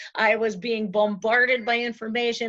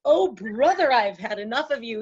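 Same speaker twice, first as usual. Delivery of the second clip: fed-up husband; 3 dB louder than usual. Retold or imitated.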